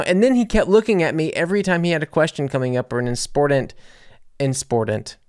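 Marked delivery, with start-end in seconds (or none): 3.1-5.2 "important" garbled as "inspordant"; tongue-tied slip. Real, not acted. Speaker tripping over "important" as "insportant", tongue-tied. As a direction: stumble on "important", slipping an s in so it comes out "insportant". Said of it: "So cannot talk today".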